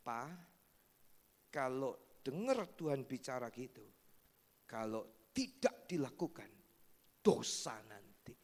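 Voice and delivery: low, grave voice of a son; son warns. Retold or imitated. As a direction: warn father solemnly. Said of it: "salah satu anaknya malah bilang gini".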